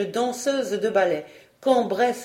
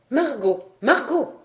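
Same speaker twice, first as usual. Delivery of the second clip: unsoftened calling out; 5 semitones higher, 3 dB louder than usual. A narrator's reading. Frog queen excitedly calls Marguerite, unsoftened calling. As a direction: call the name twice, the second higher. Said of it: "sans plus songer à adoucir l'éclat de sa voix".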